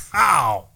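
imitated guffaw. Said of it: "when your laughter starts".

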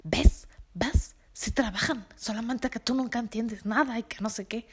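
husband's voice, sharp "Ves" then belittling; imitating a condescending husband; scornful husband. Husband scolding his wife in front of Mayra, scornful.

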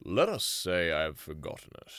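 grave Aslan. Acted. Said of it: "answered Aslan gravely".

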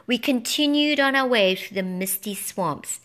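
ordinary delivery

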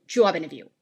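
"job interview" in a British-style accent; rounded British vowel in "job", r dropped in "interview"; other accent. Shown as a demonstration. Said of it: "An accent is the difference between".

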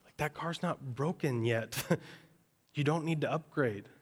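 gently reassure, no rush; God speaking gently. Acted. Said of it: "And God's saying".

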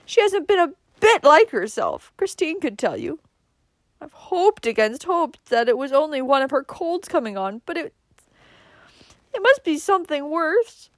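high-pitched tearful outpouring; sobbing. A narrator's reading. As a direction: pour it out, distraught and high. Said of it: "she sobbed".

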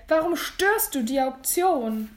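slow, indignant question; annoyed challenge. Acted. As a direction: demand why he interferes. Bidder rebukes the intruder.

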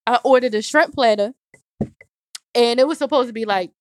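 burping between words; words broken by burps; talking while burping. Real, not acted. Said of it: "I'm sorry, y'all, I keep burping".

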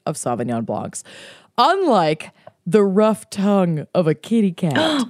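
deliberate, lightly hammed-up wine pitch; scripted wine description. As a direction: present the wine like ad copy. Reads out a wine write-up.

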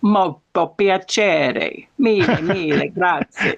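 lilting, drawn-out Italian greeting; put-on Italian accent. Shown as a demonstration. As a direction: show off an Italian accent on request. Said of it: "can you do that accent again".

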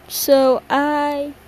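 talking through a yawn; words stretched by a yawn. Real, not acted. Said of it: "yawning again".

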